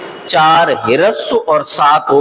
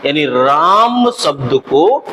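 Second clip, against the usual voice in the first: slow explaining; 2 semitones lower, slower than usual. Shown as a demonstration. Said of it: "थोड़े अधिक समय के लिए उच्चारित कर लिया गया".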